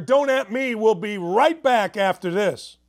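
rally the listeners into the break; fired up. Real, not acted. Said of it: "I'm fired up".

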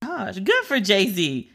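a slow tender aside; emotional, slow. Real, not acted. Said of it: "I'm really getting emotional here".

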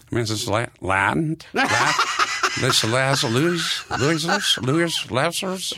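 lightly voiced sneaky shark; a hint of a shark at the door; menacing shark. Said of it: "So I d-, did the shark voice".

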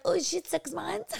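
high, slow, amazed question; surprised stranger. Retold or imitated. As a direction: mimic a stranger's disbelief. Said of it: "they're like".

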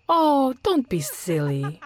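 high, slow, lilting tease; amused, laughing dismissal. A narrator's reading. Margaret to frightened Jerry in the kitchen, amused. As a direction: brush it off with light amusement. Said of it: "she said with another laugh".

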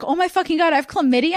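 high-pitched mock panic; freaking out. Boyfriend calling her back about chlamydia, mock freak-out. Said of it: "He's freaking out".

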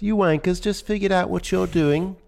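put-on high, prissy British accent; posh British accent. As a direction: play it as a dainty English gent. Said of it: "I think he actually talks like this".

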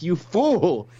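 mildly acted incredulous outburst; mock taken aback. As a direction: play someone briefly taken aback. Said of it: "Tyron was almost taken aback".

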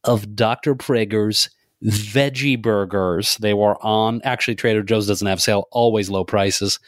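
a lightly voiced folksy dad talking to his wife; hint of a cheery suburban husband bragging about groceries; Midwestern dad. Co-host doing a Midwestern dad telling his honey, lightly voiced. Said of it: "Oh, like Midwestern dad?".

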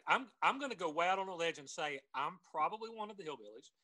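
ordinary talk

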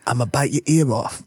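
lisping boxer impression; lightly voiced boxer with a lisp; Mike Tyson. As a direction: make a mock threat as a lisping boxer. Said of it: "It's me, Mike Tyson".

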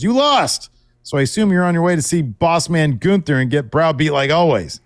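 loud, high mocking jab; mock taunt. Gable mocking Kaiser after his loss, loud taunt. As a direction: gloat at the loser. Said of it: "Gable shushes Kaiser and says".

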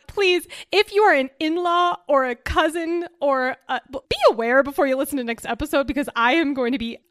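words spilling out between giggles; laughing through it. Real, not acted. Embarrassed sister warning family listeners, laughing.

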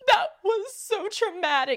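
gasping, high-pitched mock sob; hammed-up tearful phone call, slow and high; crying like a baby. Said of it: "called my mom like a baby".

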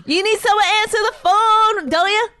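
high, loud pushy appeal; hammed-up insistence on being hired; rejected job applicant. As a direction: press the interviewer, indignant. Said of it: "someone that just went to a job interview".

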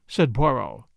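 usual speaking voice

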